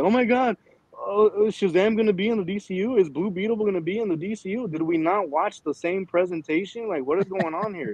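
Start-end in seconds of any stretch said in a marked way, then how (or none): 0.0-4.7 mocking clueless fans. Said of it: "When they're like".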